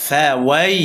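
ফাওয়াই with an unstretched diphthong; quick leen glide. Shown as a demonstration. Teacher showing the leen letter, quick glide in ফাওয়াই. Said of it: "তাড়াতাড়ি উচ্চারণ হবে".

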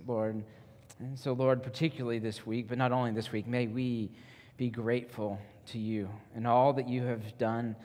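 soft, subdued congregational prayer; gentle spoken prayer; leading prayer. Real, not acted. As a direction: pray quietly, with pauses between phrases.

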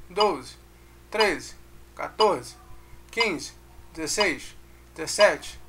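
steady count, each stressed syllable punched. Shown as a demonstration. Music teacher counting the beat for students, stressed syllables punched. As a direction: count evenly in time, hitting every tônica. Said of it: "é botar a sílaba tônica".

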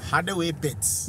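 trying Geordie. Retold or imitated. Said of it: "How the way, pet?".

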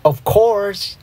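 high, drawn-out interrupting call; yelled. A narrator's reading. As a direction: burst in high to take the blame. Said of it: "yelled A J".

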